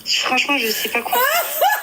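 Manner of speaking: laughing through the words; can't stop laughing while speaking; giggling helplessly. Real, not acted.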